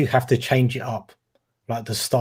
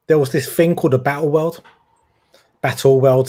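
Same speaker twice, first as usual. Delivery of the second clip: East End Cockney lilt; Cockney accent; 4 dB louder than usual. Real, not acted. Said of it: "gone into my Cockney voice now".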